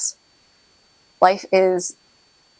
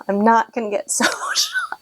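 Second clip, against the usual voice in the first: emotional laugh; 3 semitones higher than usual. Real, not acted. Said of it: "I'm getting emotional".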